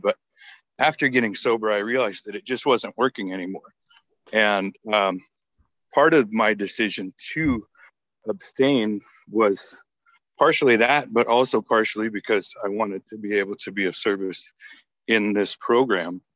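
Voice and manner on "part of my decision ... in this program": slightly out of breath, between breaths. Real, not acted. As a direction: talk while catching your breath. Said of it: "I'm a little out of breath".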